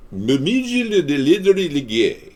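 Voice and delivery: "Literally gay" drawn out very slowly, high then falling; garbled mimicry. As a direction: slur "Literally gay" into slow high babble. Mimicking what it sounded like.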